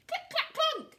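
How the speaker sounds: loud, high punched-out thuds; storybook sound effect; crashing knocks. Acted. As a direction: punch each word like a blow. Acts out chandelier falling.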